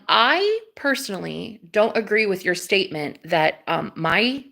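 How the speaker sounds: put-on British accent, deliberate delivery; measured British-accented objection. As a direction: speak in a playful British accent. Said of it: "my British accent too".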